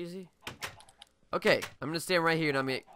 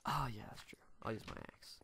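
whispering; 2 semitones lower, 12 dB quieter than usual. Real, not acted. Aside while swapping items.

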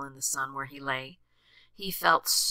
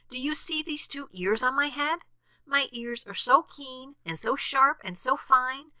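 high-voiced boastful rabbit; bragging rabbit; 9 semitones higher than usual. A narrator's reading. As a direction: show off proudly in a much higher voice. Rabbit boasting of ears to bear.

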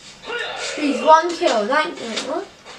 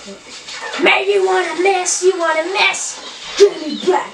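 imitating Reece; 4 semitones higher than usual. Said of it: "This is what Reece said in my class".

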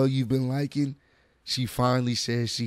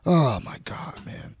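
whisper; 4 semitones higher, slower than usual. Real, not acted. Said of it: "this ugly sounding voice".

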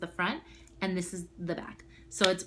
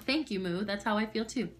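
ordinary talk

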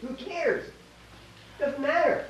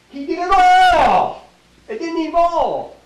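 booming proclamation; 8 semitones higher, 12 dB louder, much slower than usual. Acted. Preacher's emphatic climax.

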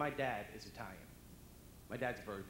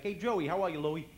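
dim Brooklyn guy; 4 semitones higher, 8 dB louder than usual. Retold or imitated. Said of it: "Unless they're not too bright".

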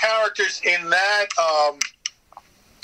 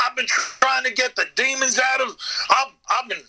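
raised hillbilly voice; 7 semitones higher than usual. Retold or imitated. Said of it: "I'm saying".

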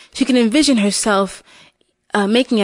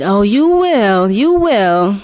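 knowing witch; 2 semitones lower, slower than usual. Acted. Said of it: "She said".

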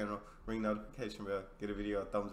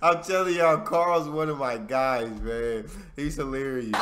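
excited; 3 semitones higher, 11 dB louder than usual. Real, not acted. Hyped after the joke.

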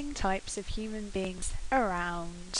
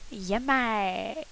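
rough London slang; 5 dB louder than usual. Retold or imitated. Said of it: "Last phrase is".

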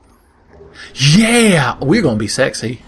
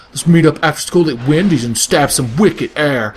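surfer bro voice. Pretend. Voicing surfer bro cool kids.

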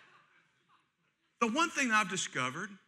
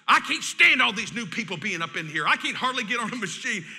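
furious complaint; 4 dB louder than usual. Retold or imitated. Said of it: "He's just furious".

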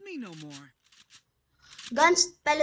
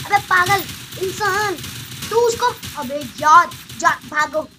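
panicked yelling; 4 semitones higher, 6 dB louder than usual. Real, not acted.

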